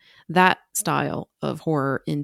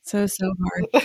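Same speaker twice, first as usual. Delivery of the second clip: slow breathy whisper; 3 semitones higher, slower than usual. Acted. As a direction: whisper it slowly. Whispered joke.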